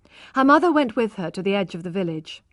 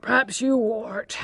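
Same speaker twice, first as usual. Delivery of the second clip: sleepy murmur; 3 semitones higher, slower than usual. A narrator's reading. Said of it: "murmured John, half asleep".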